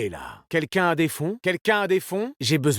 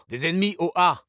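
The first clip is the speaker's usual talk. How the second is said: keyed-up enemy callout; urgent warning; 3 semitones higher, faster than usual. Acted. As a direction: warn teammates with some urgency. (alerte pressante)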